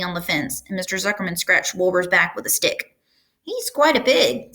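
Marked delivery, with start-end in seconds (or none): 3.4-4.5 higher, slow, approving farmhand; a hint of a pleased hired man; lightly voiced hired man. A narrator's reading. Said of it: "said Lurvy".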